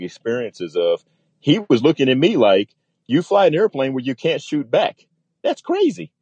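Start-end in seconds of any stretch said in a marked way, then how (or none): 3.1-6.1 mock incredulity, pitched up high; retold disbelief. Fighter ace to cargo pilot about flying unarmed, incredulous. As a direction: imitate someone baffled, leaping high at the end.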